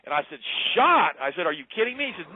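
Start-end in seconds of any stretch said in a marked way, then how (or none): 0.8-1.2 high, loud incredulous echo; shocked disbelief. Retold or imitated. Retold shocked reply to innkeeper. 1.5-2.1 high-pitched incredulous question; retold disbelief. Retold disbelief at innkeeper's accusation.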